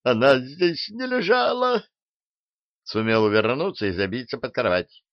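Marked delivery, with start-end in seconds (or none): 0.0-1.8 wild yell. Acted. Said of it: "с диким воплем".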